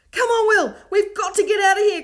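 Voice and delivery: loud, high urgent call; cried out. A narrator's reading. Davina hurries Will to flee, crying loudly. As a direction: hurry him away. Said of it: "cried Davina".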